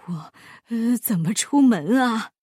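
woeful, halting whine; mournful. A narrator's reading. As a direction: wail helplessly as if near tears. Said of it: "巴依老爷哭丧着脸".

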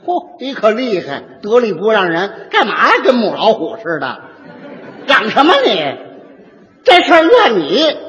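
mock-scolding, pointing finger; half-hearted hammed-up telling off; scolding the wife. Tactless mediator mock-scolds the wife as a tigress. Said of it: "一指那女的".

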